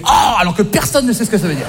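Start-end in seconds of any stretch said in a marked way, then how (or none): 0.0-0.3 mock audience gasp of "Oh"; imitated shocked crowd. Comedian mimicking his audience, mock shocked. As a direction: react like a scandalised audience. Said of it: "tout le monde refait".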